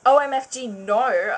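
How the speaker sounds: loud shocked no; loud protest. Acted. Student protests transfer to principal, loud mock outcry. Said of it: "I said loudly".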